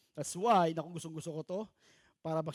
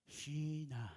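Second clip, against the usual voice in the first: soft call; 3 semitones lower, 5 dB quieter than usual. Retold or imitated. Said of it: "Pero masarap, sarap nga yan".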